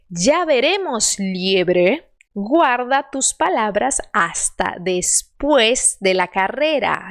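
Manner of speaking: slow, clear Spanish reading; slow model sentence. Shown as a demonstration. Teacher models the line before students read. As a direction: read each word slowly and clearly.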